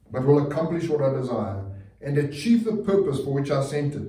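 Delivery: measured, declaiming read of the text; scripture reading. Acted. Pastor reading Isaiah to the church, proclaiming.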